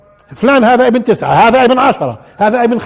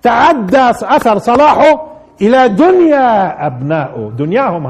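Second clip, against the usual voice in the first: slow emphasis; slower than usual. Shown as a demonstration. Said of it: "لاحظوا".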